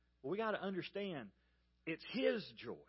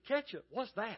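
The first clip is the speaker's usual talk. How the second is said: feigned bafflement, pitched up; mock puzzlement; 4 semitones higher than usual. Preacher getting the waitress back, mock-puzzled. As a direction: pretend you have never heard of it.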